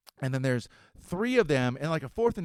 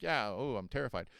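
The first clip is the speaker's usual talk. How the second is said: sarcastic; 3 semitones lower, 6 dB quieter than usual. Retold or imitated. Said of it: "being a dick about it".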